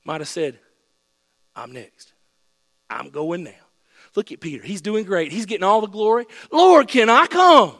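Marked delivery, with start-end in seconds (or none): 1.6-7.8 acted eager pleading. Acting an eager, competitive disciple.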